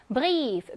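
brief with a drawn-out "ee"; German brief, its vowel stretched; long vowel. Shown as a demonstration. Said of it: "그럼 장음입니다".

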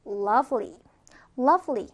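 "lovely." as an isolated word, falling; model pronunciation. Shown as a demonstration. Teacher models lovely for repetition, careful falling pronunciation. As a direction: say "lovely." carefully for learners to copy. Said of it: "발음해볼까요".

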